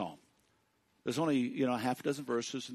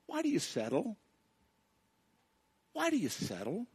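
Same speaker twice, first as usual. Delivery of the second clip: 1 voice of God; 9 semitones higher, 4 dB quieter than usual. Acted. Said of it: "God says".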